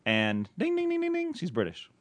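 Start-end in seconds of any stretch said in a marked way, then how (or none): 0.6-1.3 "ding, ding, ding, ding" sung much higher like a game-show bell; mock prize bell. Host teasing cohost about British caller, high sing-song bell. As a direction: ring out the words like a jackpot bell.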